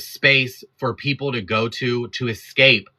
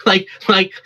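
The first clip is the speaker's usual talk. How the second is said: laughing in disbelief through like; a high, disbelieving laugh; incredulous laugh; 8 semitones higher than usual. Real, not acted. Laughing in disbelief mid-rant.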